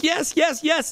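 high, loud string of yeses; ecstatic yes. Retold or imitated. Streamer celebrating the pull, elated chant. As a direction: chant it as the win sinks in. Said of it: "freaking out".

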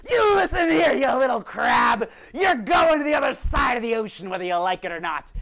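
loud scolding shout. Acted. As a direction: yell at the little crab. Mer family shouting at crab.

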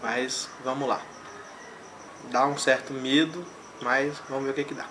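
lips pressed on chili; speaking before biting pepper; talking with pepper at lips. Real, not acted. Seen 0: Red chili pepper held against his lips while he speaks, bite at end.

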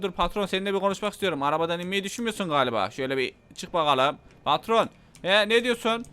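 usual speaking voice

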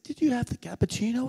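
secretive whispered question. Retold or imitated. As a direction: lean in and share a secret. Leans to seatmates conspiratorially.

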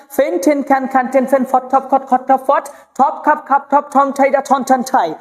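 ফেন, ঠেন, খ্যান in a quick even chant; aspirated drill. Shown as a demonstration. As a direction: puff air on each ফ, ঠ and খ in ফেন, ঠেন, খ্যান. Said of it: "এইভাবে আপনাকে পড়তে হবে".

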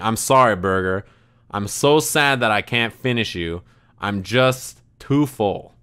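slow down into a mock-heartfelt apology; mock-sorrowful apology. Friend saying sorry to his unfinished burger, mock-sorrowful. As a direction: imitate a regretful confession, drawing out the last words. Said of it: "looking directly into his cheeseburger".

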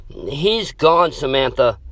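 scream. Acted. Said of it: "Scott screamed".

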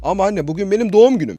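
put-on high, loud pleading kid; emotional child. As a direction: plead with mom, full of feeling. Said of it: "duygulu oynamaya çalışacağım". (annesine yalvaran çocuk, duygulu ve yüksek sesle)

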